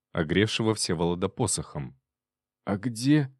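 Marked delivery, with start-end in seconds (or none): none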